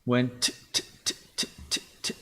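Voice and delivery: repeated hard t after "Went", the t of "wrong" clipped and spat out; overstrong t. Shown as a demonstration. Dev mimicking the TTS's harsh t sounds in "Went wrong". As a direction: tap out the "t" sounds in bursts. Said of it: "The T is very strong".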